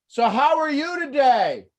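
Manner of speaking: loud, slow, high, over-enunciated; talking to foreigner. Acted. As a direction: talk down as if they can't understand. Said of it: "so we're talking like this, and then all of a sudden".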